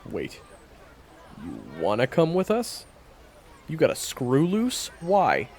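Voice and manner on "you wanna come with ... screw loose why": loud, high incredulous shout; you've lost your mind, seriously?; incredulous outburst. Acted. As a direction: blurt it out in disbelief. Hunter rejects tagging along.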